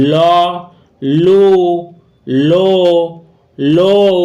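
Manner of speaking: ল, লু, লো, লৌ, each vowel distinct, with pauses between; pronunciation demo. Shown as a demonstration. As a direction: sound out ল, লু, লো, লৌ as four separate syllables. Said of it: "উচ্চারণ".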